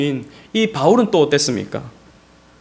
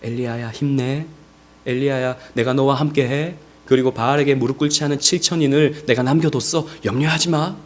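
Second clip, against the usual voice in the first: gentle whispering; 3 semitones lower than usual. Retold or imitated. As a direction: comfort someone tenderly in a lowered voice. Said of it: "속삭여 주시는 거예요".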